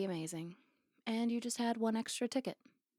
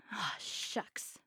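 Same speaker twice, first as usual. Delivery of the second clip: whispered teasing aw shucks; mock aw shucks; 6 dB quieter than usual. Teasing the modest pilot, echoing him in a whisper. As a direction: breathe it out like a bashful boy, teasing.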